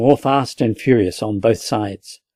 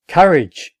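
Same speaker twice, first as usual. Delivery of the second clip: a rallying shout of Courage; 6 semitones higher, 3 dB louder than usual. A narrator's reading. Captain shouting to his men from the window. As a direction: cry out Courage to lift the men. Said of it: "he shouted".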